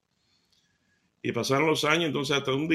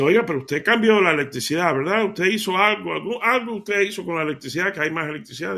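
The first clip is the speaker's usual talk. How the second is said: amazed questioning; 3 semitones higher, 4 dB louder than usual. Acted. Mujer asombrada interroga al vendedor.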